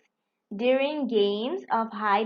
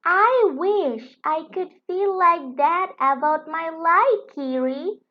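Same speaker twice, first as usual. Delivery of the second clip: wistful; 6 semitones higher, 4 dB louder than usual. Acted. Firenze wistful.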